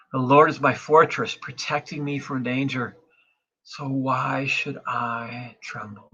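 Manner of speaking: measured psalm reading, slowing at the end; scripture reading. Acted. Pastor reads psalm to online church, measured.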